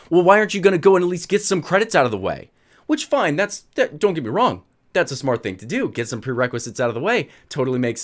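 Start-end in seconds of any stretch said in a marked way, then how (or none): 0.1-2.5 retold interruption. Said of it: "she'd cut me off".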